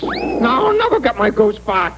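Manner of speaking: anguished cry. Acted. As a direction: cry it out as all hope goes. Despair over lost goose.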